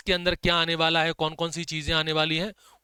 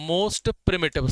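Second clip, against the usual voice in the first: very slow, word by word for notes; slow dictation; much slower than usual. Shown as a demonstration. Teacher dictating notes to class, very slow and deliberate. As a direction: spell it out slowly so students can write. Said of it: "की notes में बस ये लिख लो".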